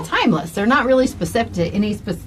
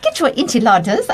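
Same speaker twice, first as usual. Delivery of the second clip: bad British accent. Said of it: "that's a terrible British accent".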